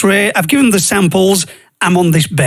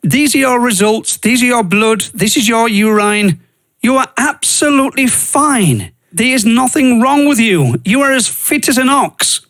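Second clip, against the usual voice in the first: doctor's verdict; 4 semitones higher than usual. Retold or imitated. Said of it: "she goes".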